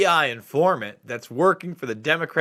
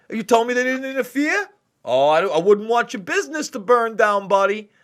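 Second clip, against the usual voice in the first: mafia heavy; 4 semitones higher than usual. Retold or imitated. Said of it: "doesn't sound like an Italian".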